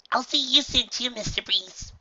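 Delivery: high, bright little filly; cheerful filly voice. A narrator's reading. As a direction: say goodbye sweetly. Filly farewell.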